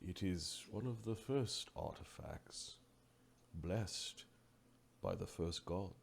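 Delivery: low, hushed, slow sage voice; solemn Oracle. Acted. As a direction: reveal ancient lore softly, with long pauses. Game master voices the Oracle.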